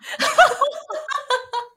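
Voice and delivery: a burst of high laughter falling away. Real, not acted. Laughing about dumping English calls on her husband, high laugh. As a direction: laugh at her own helplessness on the phone.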